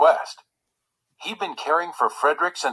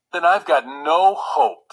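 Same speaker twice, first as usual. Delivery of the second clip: sulking; 5 semitones higher, 5 dB louder, slower than usual. Acted. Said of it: "Frederick sulked".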